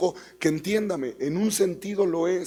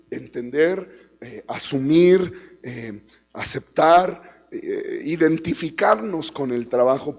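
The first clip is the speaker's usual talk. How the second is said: slow deliberate list; 3 dB louder, slower than usual. Real, not acted.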